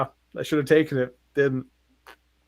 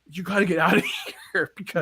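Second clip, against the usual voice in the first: higher-pitched warning cracked by laughter; mock warning; 4 semitones higher, faster than usual. Concussed teen warns people of Venom, retold through laughter. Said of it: "I was trying to warn people".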